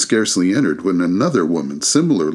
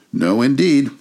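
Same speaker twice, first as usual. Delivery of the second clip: hasty agreement; 6 semitones higher than usual. A narrator's reading. Mrs Dilber and the man agreeing, high and hasty. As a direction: agree at once.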